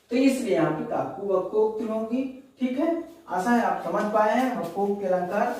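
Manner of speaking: normal talking voice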